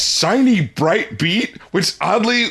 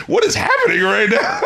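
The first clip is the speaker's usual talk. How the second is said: pitched way up in laughing disbelief; amazed; 13 semitones higher than usual. Retold or imitated. Podcast host recalling hearing a singer, high laughing amazement. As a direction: gasp it out like the track just stunned you. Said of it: "I was like".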